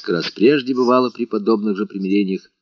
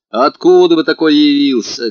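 loud, bossy challenge; a servant lording it over the visitor; commanding housekeeper; domineering; 7 semitones higher, 8 dB louder than usual. A narrator's reading. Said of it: "как власть имеющая".

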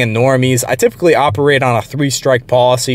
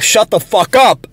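higher, drawn-out re-enacted yell; toned-down retold yell; 7 semitones higher than usual. Retelling his outburst at a ranting coworker, toned-down yell. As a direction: act out yelling without full volume. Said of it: "I just yelled as loud as I could".

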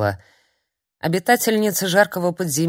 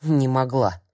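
bewildered; 2 semitones lower than usual. A narrator's reading. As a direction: murmur "Не могла" to herself, confused. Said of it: "и даже растерялась".

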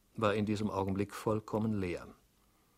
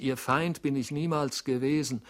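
loud, high, desperate plea; pleading; 5 semitones higher, 5 dB louder than usual. A narrator's reading. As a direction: beg him to believe you. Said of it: "rief er kläglich". (flehend, laut und hoch)

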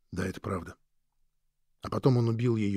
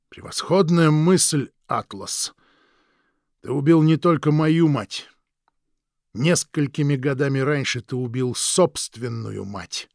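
slow, a touch louder cruel jab; gloating brother; 3 dB louder, slower than usual. Acted. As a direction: savour the wound you inflict.

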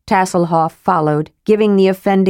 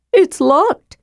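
higher, bright report; kender reporting; 11 semitones higher than usual. Acted. Kender to dwarf at the door, higher and bright. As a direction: announce it brightly. Narrator voices Tass.

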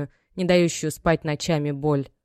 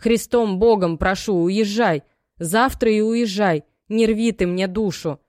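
higher and louder, desperate plea; begging mother; 4 semitones higher, 5 dB louder than usual. Acted. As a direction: implore her by God to leave tomorrow. Мать умоляет уехать. (мать умоляет, выше и громче)

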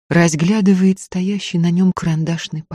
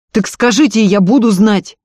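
raised, demanding shout; yelling; 7 semitones higher, 6 dB louder than usual. A narrator's reading. Andrey forgetting himself and yelling at Varya. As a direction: lose his temper and demand an answer. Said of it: "заорал Андрей".

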